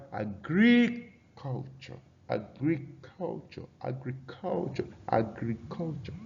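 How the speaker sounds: "agriculture" slowly, in separated, drawn-out parts; stress demonstration. Shown as a demonstration. Teacher drilling stress placement, deliberate drawn-out "agriculture". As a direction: stretch the syllables of "agriculture" as a model to copy. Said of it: "is on the fourth syllable".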